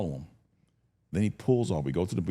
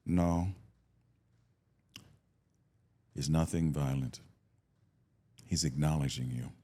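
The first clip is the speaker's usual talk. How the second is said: low, slow priest intoning solemnly; skinny priest's weird voice; 8 semitones lower, 6 dB quieter than usual. Retold or imitated. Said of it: "He's got a weird voice".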